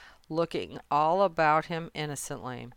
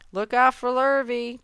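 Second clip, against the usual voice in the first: high, louder warning; urgent raised cow's call; 8 semitones higher, 6 dB louder than usual. A narrator's reading. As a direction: call a warning across the farmyard. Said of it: "called the cows".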